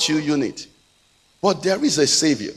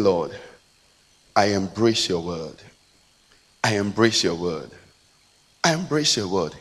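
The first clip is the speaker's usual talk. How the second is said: leading prayer; 7 semitones lower than usual. Acted. Leads congregation in prayer.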